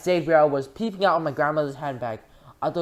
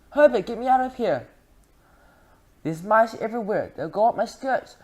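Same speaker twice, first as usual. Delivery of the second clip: much higher, loud panic; hysterical screaming; 9 semitones higher, 4 dB louder than usual. A narrator's reading. Missus Jenkins begging her husband, screaming. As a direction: wail it in terror. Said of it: "it was screaming".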